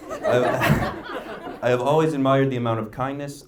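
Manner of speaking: giggling through the words; real laughter breaking into a toast; laughing. Real, not acted. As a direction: fight back a laugh while speaking. Sister laughs mid toast.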